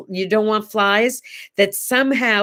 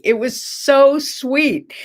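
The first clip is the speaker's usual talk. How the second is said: tender, slow; 5 semitones higher, much slower than usual. Real, not acted. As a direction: stretch it out slowly, melting with fondness. Fond remark about her mother.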